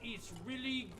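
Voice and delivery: bad Australian accent. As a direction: play a tour guide in a cheesy Australian accent. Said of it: "all about the bad Australian accent express".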